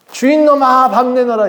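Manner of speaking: high, laughing mock pig voice demanding food; hungry pigs demanding. Preacher voicing pigs yelling at their master, high laughing mock demand. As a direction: squeal it like a starving pig bossing its master. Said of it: "뭐라고 하고 있냐면".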